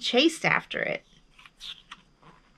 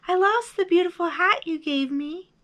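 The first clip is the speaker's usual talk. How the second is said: high echoed reply, less forceful; high held-back voice; 8 semitones higher than usual. A narrator's reading. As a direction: repeat it like an echo. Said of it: "his own voice echoed".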